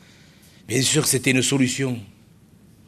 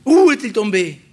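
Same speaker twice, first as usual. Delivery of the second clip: higher, louder, the prophet crying out; cried out; 7 semitones higher, 7 dB louder than usual. Retold or imitated. Preacher acting the prophet's cry to the congregation, cried out loud. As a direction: cry the question out. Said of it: "il s'est écrié".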